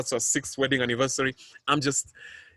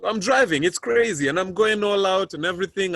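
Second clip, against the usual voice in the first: higher and louder, racing through it; frantic retelling; 6 semitones higher, 5 dB louder than usual. Real, not acted. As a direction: relive the panic of the drive. Frantic drive to hospital.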